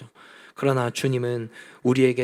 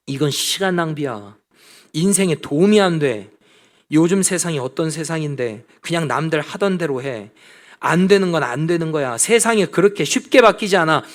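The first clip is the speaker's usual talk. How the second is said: critical scoffing; 4 dB louder than usual. Retold or imitated. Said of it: "비판적인 이야기를 계속했습니다".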